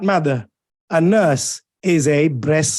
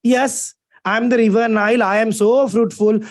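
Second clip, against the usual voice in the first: lightly voiced river, pitched up; talking river Nile; 4 semitones higher than usual. River Nile answering the narrator's question, lightly acted in higher pitch. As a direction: playfully answer as the personified river. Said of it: "Can the river Nile answer this question?".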